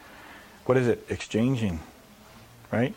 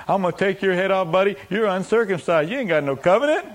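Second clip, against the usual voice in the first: raised-pitch challenge to a giant; cocky taunt; 4 semitones higher than usual. Acted. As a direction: taunt the enemy, building higher. David taunting the giant, acted.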